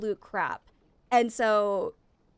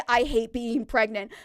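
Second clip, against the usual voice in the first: grumpy complaint; 5 dB louder than usual. Retold or imitated. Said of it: "It's gonna be like".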